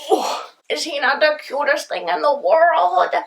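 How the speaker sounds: high, slow cooing over the dog. Real, not acted. Cooing over her boxer.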